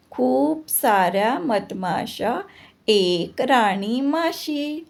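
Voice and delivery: singsong verse with drawn-out line endings; measured, lilting nursery-rhyme reading; children's poem recitation. Acted. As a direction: chant it rhythmically for young pupils to follow.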